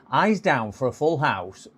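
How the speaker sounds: slow, sing-song bingo call; bingo caller. Pretend. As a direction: drawl it out like a bingo hall caller. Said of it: "is it a bit like being, um, bingo caller?".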